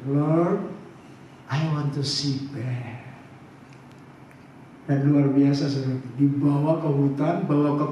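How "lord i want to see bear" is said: low, soft plea to God; earnest prayer. Retold or imitated. Couple praying to God to see a bear, low and earnest. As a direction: lower the voice into a humble request.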